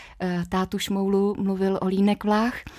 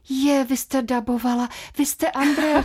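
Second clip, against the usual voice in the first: raised, delighted exclamation; excited recognition; 5 semitones higher than usual. Retold or imitated. Woman in a shop recognising the dubbing actress, mildly excited. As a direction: imitate a surprised stranger placing the voice. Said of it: "a paní říká".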